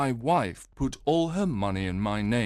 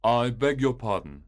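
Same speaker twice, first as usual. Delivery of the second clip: an anxious gentleman apologising; Grant Munro. Acted. Visitor apologises entering.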